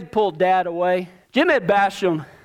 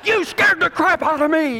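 higher, half-joking scolding; mock scolding parent; 9 semitones higher than usual. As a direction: scold the kid right after the scare. Relieved parent scolding the kid.

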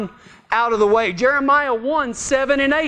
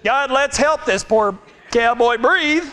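cowboy's mock prayer; slower than usual. Mock prayer instead of giving CPR.

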